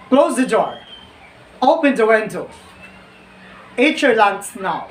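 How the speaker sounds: firm, no-nonsense orders from a parent; authoritative commands. Shown as a demonstration. Teacher demonstrating commands to students, firm and authoritative. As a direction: tell them, don't ask them. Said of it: "say a command sentence with extra authority".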